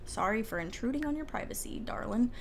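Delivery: soft voiceless whisper; hushed mock-polite whisper; whispered apology. Real, not acted. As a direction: tiptoe in and whisper sorry. Walking in on a Sim's bath.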